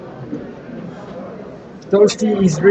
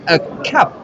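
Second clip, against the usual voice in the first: French accent. Shown as a demonstration. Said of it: "that's my French accent".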